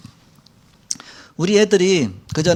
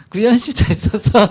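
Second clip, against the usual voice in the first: put-on higher, playful kid calling a parent by first name; cheeky kid greeting; 6 semitones higher, 4 dB louder than usual. Imitating the kids greeting their pastor parents casually, playful and higher. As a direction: mimic a child's breezy, overfamiliar hello.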